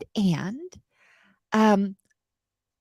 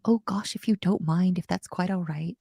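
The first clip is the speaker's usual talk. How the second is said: apologetic; 2 semitones lower than usual. Retold or imitated. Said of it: "but I'm always".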